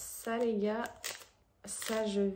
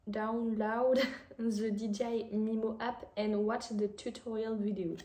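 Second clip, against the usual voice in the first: reading the box in a French-accented English accent. Shown as a demonstration. Vlogger reads the English instructions on the box, in an English accent. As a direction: read the English label aloud in a playful English accent. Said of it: "Mon petit accent anglais".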